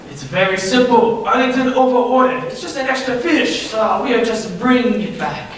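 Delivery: a lightly put-on French accent. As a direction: play a hammy fake French chef in a French accent. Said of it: "German accent".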